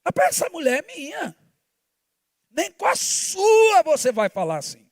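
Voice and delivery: stern warning. Retold or imitated. Father warning son.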